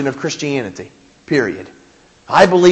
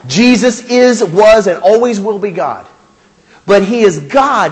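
louder, driving home "Jesus is"; loud declaration; 2 semitones higher, 3 dB louder than usual. Real, not acted. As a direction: proclaim it like a creed. Preacher declaring Jesus is God.

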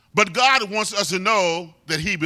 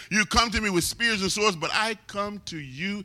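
David's challenge; 3 semitones lower, 5 dB quieter than usual. Retold or imitated.

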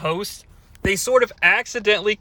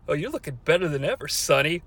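mock caller; 3 semitones lower, 5 dB quieter, faster than usual. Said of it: "Brian, what about me?".

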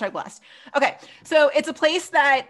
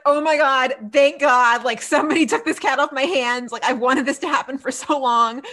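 louder, thrilled gush of relief; over the moon; 2 semitones higher, 5 dB louder than usual. Retold or imitated. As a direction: gush with delight, a bit louder. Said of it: "over the moon".

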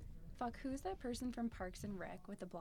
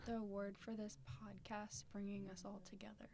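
whispering; 6 dB quieter than usual. Acted. Mock solemn award in whisper.

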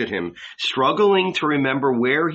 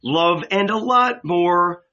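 retold shout; 5 semitones higher, 3 dB louder, slower than usual. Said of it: "I shouted".

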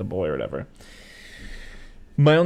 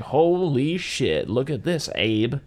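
put-on country boy; 3 semitones higher, much slower than usual. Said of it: "those two brothers ... being like".

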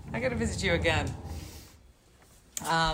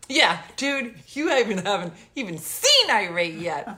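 louder mock warning; retold comeback; 4 dB louder than usual. Woman retelling her reply to the electrician, mock indignant. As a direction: push back with playful indignation.

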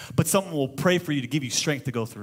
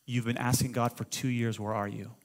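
hushed; 5 semitones lower, 5 dB quieter than usual. Retold or imitated. Voicing the boy's prophecy.

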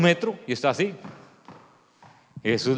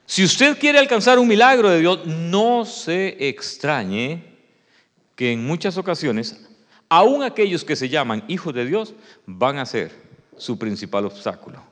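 very slow, drawn-out words; slow motion; 2 semitones lower, slower than usual. Shown as a demonstration. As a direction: stretch every phrase out for weight. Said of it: "Se lo voy a decir en cámara lenta". (en cámara lenta, muy despacio)

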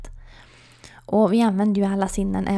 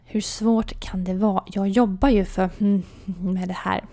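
sour muttering. Retold or imitated. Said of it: "muttrar jag lite surt".

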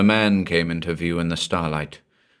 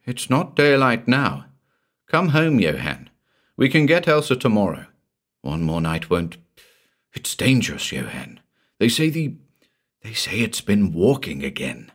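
anxious pleading; 3 semitones higher than usual. Acted. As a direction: beg him to come home. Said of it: "Stung, Karl responded".

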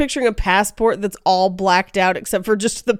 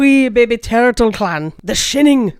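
Scottish groundskeeper-style delivery; attempted Scottish accent; 2 semitones higher, 3 dB louder than usual. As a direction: play up a cartoonish Scottish accent. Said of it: "for a Scottish accent".

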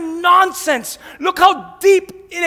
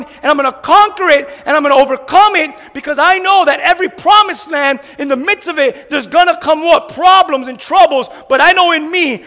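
louder defiant declaration; declaring victory; 4 dB louder than usual. Retold or imitated. Believer declares he will fight on, bold and louder. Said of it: "and you say".

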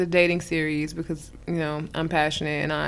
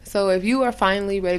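usual speaking voice

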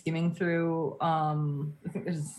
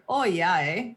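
Canadian accent. Shown as a demonstration. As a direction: demo of a Canadian "Oh, yeah, eh?". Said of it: "if you wanted to say what you just said".

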